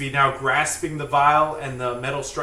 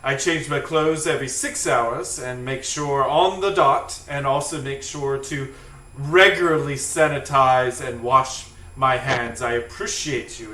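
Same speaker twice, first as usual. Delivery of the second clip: lightly voiced, stammering proper gentleman; proper Helper T cell. Cell defending his clean hands, mildly proper and flustered. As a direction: assure them politely, a little flustered. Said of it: "his properness".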